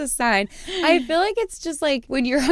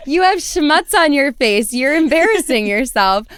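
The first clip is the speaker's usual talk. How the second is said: raised, louder gloating taunt; taunting comeback; 3 semitones higher, 4 dB louder than usual. Retold or imitated. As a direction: rub it in with a grin. Repeats comeback to the guy.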